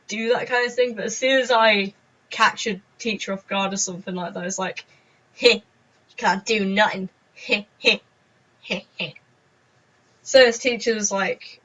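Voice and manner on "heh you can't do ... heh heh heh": slow, smug little heh-heh. Retold or imitated. To the teacher, a smug slow taunt. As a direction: gloat at the caught-out teacher. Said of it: "the most smug smile".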